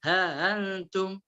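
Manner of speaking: slow ها أنتم with eased hamza; softened hamza in ها أنتم. Shown as a demonstration. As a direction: ease slowly from ha into antum. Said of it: "قرأ بالتسهيل".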